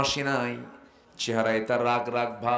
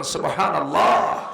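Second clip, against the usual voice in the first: louder praise to the crowd; loud subhanallah; 7 dB louder than usual. Real, not acted. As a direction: call out subhanallah loudly. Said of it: "জোরে করেন". (জোরে সুবহানাল্লাহ)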